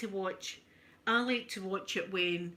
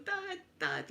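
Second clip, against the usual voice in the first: put-on crying boy; 9 semitones higher than usual. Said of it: "and going".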